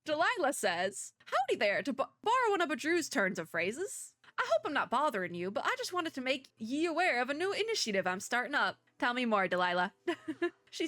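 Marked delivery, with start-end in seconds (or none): 1.3-8.8 bad Southern accent. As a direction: read it as a folksy Southerner, badly. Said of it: "the really bad Southern accent".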